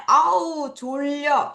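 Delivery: sleepy. Acted. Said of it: "자기 전에".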